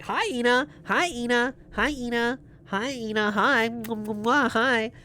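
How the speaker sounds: high, bright chat greeting; excited greeting. Real, not acted. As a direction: squeal hello to a friend.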